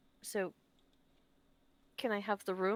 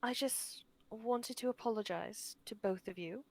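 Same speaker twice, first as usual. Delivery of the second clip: sincere apology. Acted. Tilda's heartfelt apology in character.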